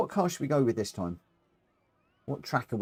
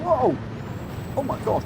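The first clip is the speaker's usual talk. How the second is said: startled whoa; 12 semitones higher, 3 dB louder than usual. Real, not acted. Car flips during the race.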